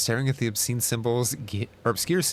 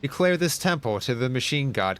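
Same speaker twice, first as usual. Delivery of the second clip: formal declaration; 4 semitones higher than usual. Acted.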